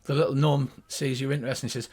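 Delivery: ordinary talk, nothing marked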